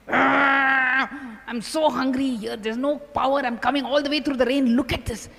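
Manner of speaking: hammed-up hungry exasperation, opening on a growing groan; acted angry outburst. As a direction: act out an irritated, hungry complaint. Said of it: "he gets angry".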